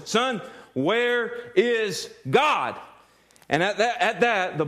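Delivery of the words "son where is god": slow, stern commanding question; loud commanding. Retold or imitated. Minister to the boy, slow stern commanding question. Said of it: "he says in a loud, commanding voice".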